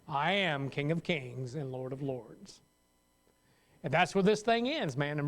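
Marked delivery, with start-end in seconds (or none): 0.1-2.6 slow, lower, solemn proclamation; voice of God. Acted. Preacher voicing God, slow and solemn. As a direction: declare it slowly as the almighty. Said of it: "That's God stating who I am".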